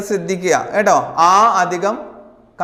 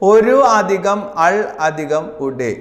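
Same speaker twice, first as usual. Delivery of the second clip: slow dictation; much slower than usual. Shown as a demonstration. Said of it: "ഏതാണ് correct answer".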